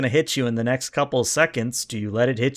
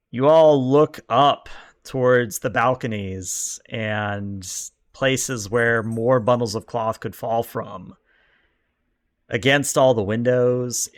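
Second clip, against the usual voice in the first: slow, deliberate reveal; storyteller unveiling a looming threat; ominous game narration. Acted. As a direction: spread the phrases out for suspense. Game master sets ominous scene.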